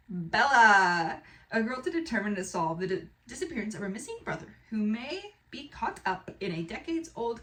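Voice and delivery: lively storyteller read-aloud; dramatic blurb reading. Acted. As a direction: read it like an exciting trailer.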